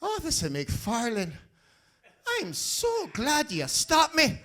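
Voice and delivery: high, prissy genteel white man voice; posh white guy voice. Retold or imitated. Driver fooling the traffic cop, high prissy genteel voice. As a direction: play a fussy genteel gentleman to fool the cop. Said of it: "I pulled some gangster out".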